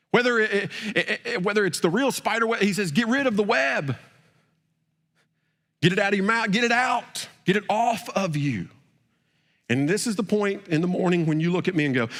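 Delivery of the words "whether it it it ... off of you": preaching at full force. Acted. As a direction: preach it hard, driving the command home. Preaching climax on get rid.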